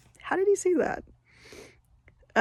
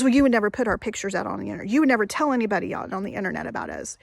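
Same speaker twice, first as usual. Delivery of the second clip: mock rapid yelling; 4 dB louder, much faster than usual. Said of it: "he was yelling at me".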